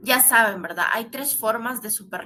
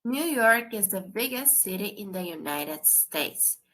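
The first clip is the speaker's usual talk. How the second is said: slow model reading; slower than usual. Shown as a demonstration. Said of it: "teacher reads example sentence".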